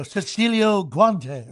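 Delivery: mild stadium announcer read; imitating PA announcer. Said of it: "he leaned over and said".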